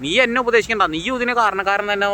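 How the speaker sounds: husband snapping angrily at his younger brother; retold angry snap. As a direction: snap back at the brother, imitating the outburst. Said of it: "ശ്രീകാന്തിനോട് മുട്ടിത്തെറിക്കാണ്".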